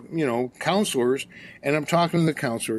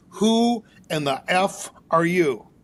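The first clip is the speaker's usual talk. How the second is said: slow, drawn-out mock challenge; retold challenge. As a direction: size up the newcomer, word by word. Retold confrontation, looking down at him.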